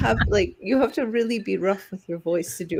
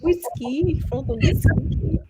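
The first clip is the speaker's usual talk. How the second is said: a hint of a drawling rich wife; posh Lovey Howell; 8 semitones higher, 4 dB louder than usual. Hamming a posh rich lady to a friend. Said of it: "You sound like Miss Thurston Howell the third".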